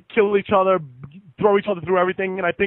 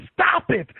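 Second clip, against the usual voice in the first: "Stop it" in a much higher mock woman's voice; imitating Velvet; 9 semitones higher than usual. Velvet scolding him in the ring, higher mock voice. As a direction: squeak it out like a scolding girlfriend. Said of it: "She's like".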